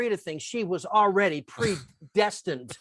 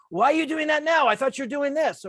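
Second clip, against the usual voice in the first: higher, louder annoyed question; 7 semitones higher, 4 dB louder than usual. Retold or imitated. Boss annoyed at assistant watching a tape, irritated. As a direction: challenge them, irritated. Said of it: "she was clearly annoyed".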